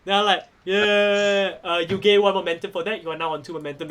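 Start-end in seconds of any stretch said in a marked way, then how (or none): 0.6-1.6 long drawn-out crowd cheer. Acted.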